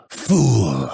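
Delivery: restrained scornful put-down; contemptuous battle insult. Acted. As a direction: dismiss the foe on a falling note. Insult in combat, second take.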